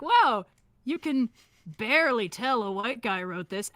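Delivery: slow, dry sarcasm; sarcastic. Retold or imitated. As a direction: drip with sarcasm. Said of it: "and I was like".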